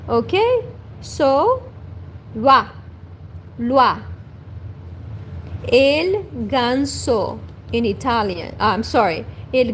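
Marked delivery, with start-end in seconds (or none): 2.3-4.0 "loi" said lwa, the French way. Shown as a demonstration. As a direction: say "wa" then "loi", with the oi as a clear wa. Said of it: "O I in French is wa".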